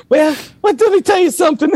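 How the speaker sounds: laughing mock stage banter to an empty arena; a rock singer's banter. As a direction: work the arena like a big stage host. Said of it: "he said".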